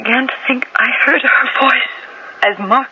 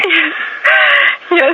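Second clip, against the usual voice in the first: a crying yes; sobbing admission; 5 semitones higher than usual. Acted. Suspect finally breaking and admitting to the detective, crying. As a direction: give in with a choked cry.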